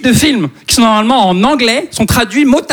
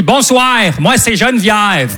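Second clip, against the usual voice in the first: put-on Québécois accent; slower than usual. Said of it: "un petit accent québécois".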